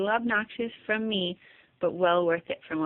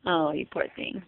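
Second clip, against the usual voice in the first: sympathetic; 5 semitones lower, 4 dB quieter than usual. Real, not acted. Consoling baby with hiccups.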